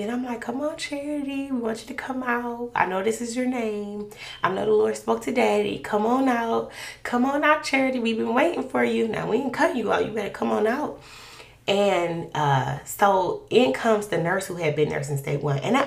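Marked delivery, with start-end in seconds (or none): 0.4-11.0 higher, gentle coaxing come on out; coaxing the baby. Retold or imitated. Mother coaxing her unborn baby to come out, gently. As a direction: sweet-talk the unborn baby out. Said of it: "I just start speaking to the baby".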